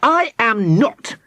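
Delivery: slow, high indignant denial; deeply insulted. A narrator's reading. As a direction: deny it with wounded pride. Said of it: "deeply insulted".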